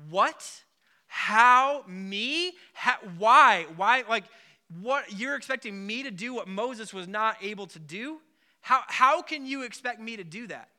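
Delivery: Joshua's stunned, rising why-me questions; a man who can't believe he's been chosen; baffled disbelief. Retold or imitated. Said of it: "you're thinking".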